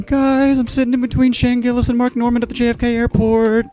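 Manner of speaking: high, loud, thrilled voice; gushing at the comedy group chat, high and loud; excited texting. Retold or imitated. Texting friends about the comedians, high and excited.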